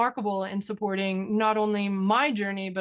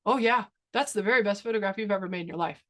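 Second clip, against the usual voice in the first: amused dad; faster than usual. Retold or imitated. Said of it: "he goes".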